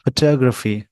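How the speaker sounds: फोटोग्राफी as "fuh-TAH-gruh-fee"; short first syllable, stressed TAH in फोटोग्राफी; British pronunciation. Shown as a demonstration. Teacher showing the British version to learners, British pronunciation. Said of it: "ये हो गया British".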